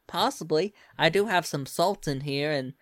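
put-on lilting Southern US accent; Southern accent, explaining with interest; Southern belle. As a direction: talk like a Louisiana Southern belle. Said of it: "Come on, Southern Belle, y'all".

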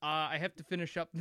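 breezy tattoo artist voice, high. Retold or imitated. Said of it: "She's like".

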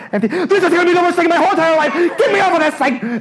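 fast, very high mock shriek; panicked screaming. Rider regretting the coaster immediately, acted high fast screaming. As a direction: burst into hammed-up squealing panic.

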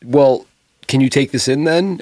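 mock sassy New York boss; sarcastic challenge. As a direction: needle the stagehand with mock politeness. New Yorker confronting lazy stagehand.

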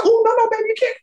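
high, sing-song scold; mock strict stepmom. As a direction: warn her off, mock-stern. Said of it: "I said".

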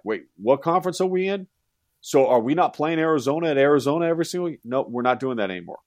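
high, baffled fan asking what's going on; confused fan. Retold or imitated. College fan asking friends which conference they're in, mock baffled. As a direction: play a fan who just found out their team switched.

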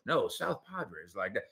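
put-on low, soft South Padre accent; Marsha's South Padre accent. Marsha correcting her husband on dialects, imitated South Padre accent. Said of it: "she got every dialect down in Texas".

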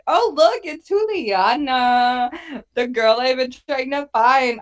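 high, excited imitation of a clueless guy; mocking Sergio. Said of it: "And then he's like".

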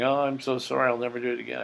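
half-acted whiny plea; mock crying apology. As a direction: imitate a tearful partner begging forgiveness. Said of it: "he's, like, crying".

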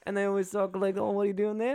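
high-pitched mock Kiwi, lifting at the end; New Zealand accent. Imitating how New Zealanders chat, in New Zealand accent. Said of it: "New Zealand accents are fantastic".

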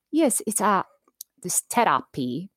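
imitated Indian professor's accent. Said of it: "he would say this one word".

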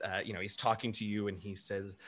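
ordinary delivery

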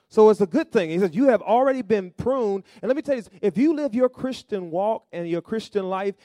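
loud, emphatic sermon delivery; forceful preaching. Real, not acted. Preacher pressing a point on the congregation, forceful preaching.

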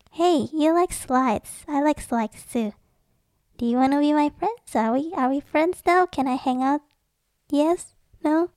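bouncy mock child asking to be friends; eager kid making friends. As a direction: act out an eager little playground approach. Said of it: "you're like".

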